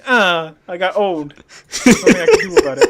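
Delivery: high, fast, hammed-up old man; old guy voice. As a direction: whine it like a tired old man. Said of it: "just the fucking old guy voice".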